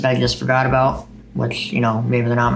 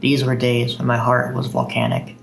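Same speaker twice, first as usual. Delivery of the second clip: unhurried recital voice with steady cadence; poem recitation. Acted. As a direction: read it like a poem to an audience. Reads second poem aloud.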